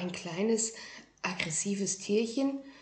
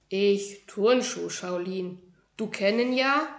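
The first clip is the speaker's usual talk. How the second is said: proud little kung fu master; 4 dB louder than usual. Acted. Tiny shoe-dwelling master introduces himself to a boy, proudly. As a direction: announce your grand title with dignity. Ming voiced.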